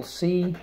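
"C." said alone as the first syllable of secret, like the letter name. Shown as a demonstration. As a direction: clip off just "C.". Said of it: "First syllable".

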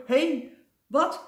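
high, loud alarmed yell; startled shout. Acted. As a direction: shout out in sudden fright. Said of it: "schreeuwde hij".

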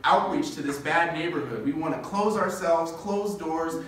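a mock self-righteous church voice rattling off rules; imitating gatekeeping church members; mocking churches. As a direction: sneer out the exclusion list. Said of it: "churches are like".

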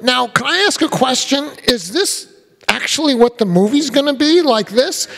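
put-on a kid deadpanning at a table read; imitating a kid. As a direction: draw it out innocently like the boy. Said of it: "then he goes".

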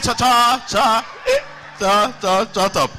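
angry stuttered scolding; stammering anger. Retold or imitated. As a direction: snap at the class while stammering. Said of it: "he's a conch stammerer".

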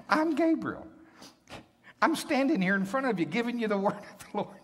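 an angel insisting on who he is, barely holding his patience; emphatic, incredulous archangel; exasperated angel. Acted. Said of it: "his attitude is completely different".

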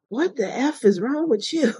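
gruff supervisor. Retold or imitated. Supervisor confronting injured trooper, mock rough bark. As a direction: imitate a tough supervisor snapping at her. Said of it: "he goes".

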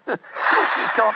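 breathless giggle through the words; fighting off laughter; laughing. Real, not acted. Laughing at Holmes's act.

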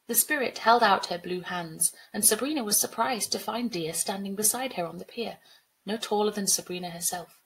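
measured storybook reading; story narration. A narrator's reading. Teacher reading a flood story to pupils, measured narration. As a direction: narrate the flood scene evenly.

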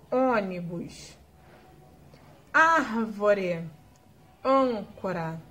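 ônibus closed and slow, árvore open, âncora closed; closed versus open vowels; contrast demo. Shown as a demonstration. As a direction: let the ô close and the á open wide. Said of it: "Olha a diferença".

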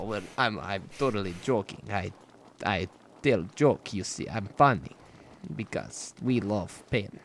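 a lightly put-on Russian accent in broken English; mock Russian accent. Gamer jokingly plays a Russian while hunting his opponent, light Russian accent. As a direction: hams up a joke Russian gamer, only a touch of the accent. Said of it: "No, I'm Russian".

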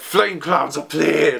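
drawn-out, mock battle command; Momonosuke. Narrator acting out a command to the flame clouds, drawn-out mock call. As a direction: call out a summoning slowly, hammed-up.

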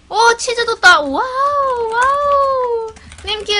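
thrilled squeal, long drawn-out wow; delighted surprise at a gift; excited. Real, not acted. Streamer thrilled that teammate left cheese.

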